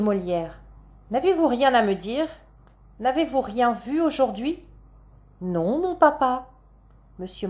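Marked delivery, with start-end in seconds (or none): 1.1-4.6 questioning stage father. Acted. Stage father questions his daughter. 5.4-6.5 put-on high, drawn-out little girl's denial; stage child denying.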